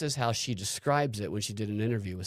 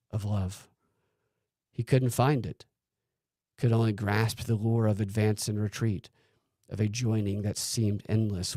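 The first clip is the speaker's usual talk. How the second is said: sultry narrator. Acted. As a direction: read it like a steamy novel. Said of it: "Just don't do it in a sultry voice".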